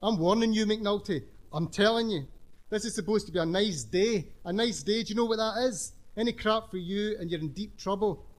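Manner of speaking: bared-teeth warning; threatening. Acted. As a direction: growl the warning through teeth. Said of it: "bared his teeth".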